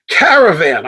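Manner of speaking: "Caravan" with a full, clear "van" at the end; self-corrected pronunciation. Real, not acted. Host catches his own slip, "Caravan" said with a clear "van". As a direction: pronounce "Caravan" carefully, last syllable unreduced. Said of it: "I keep saying caravans".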